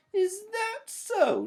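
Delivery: high, loud, sassy challenge; defiant shout. A narrator's reading. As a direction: throw it back at her. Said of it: "shouted Sister".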